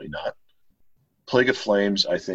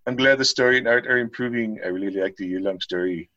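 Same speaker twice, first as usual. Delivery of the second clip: high-pitched caricature of a complaining Reddit poster; 5 semitones higher than usual. Acted. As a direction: read it as an exaggerated online whiner, pitched up. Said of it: "in the best Reddit voice I can".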